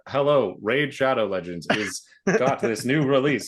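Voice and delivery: text-to-speech bot voice. Retold or imitated. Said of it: "the A I not Cortana bot read off the entire Raid Shadow Legend ad".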